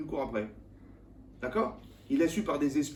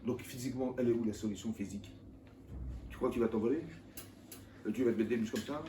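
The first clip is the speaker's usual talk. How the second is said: ordinary talk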